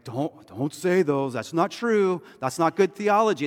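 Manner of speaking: mock-stern shutting the friend down; correcting. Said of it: "we might say that".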